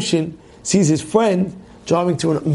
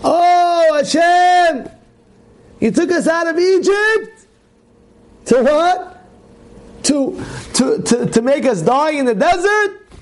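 complaining shout; 11 semitones higher, slower than usual. Retold or imitated. People in the desert complaining to Hashem, high wailing shout. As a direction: cry out your grievance to God. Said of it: "some of the people were complaining".

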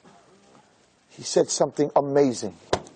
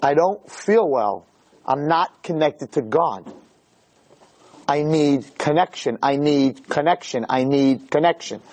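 soul pleading; 4 semitones lower, slower than usual. Acted. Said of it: "your soul is saying".

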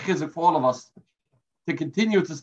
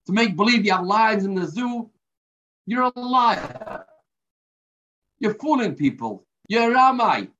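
higher-pitched mock yell at the zookeeper; retold angry yelling; 4 semitones higher than usual. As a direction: scold him, pitch up, half-performed. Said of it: "he began yelling and screaming".

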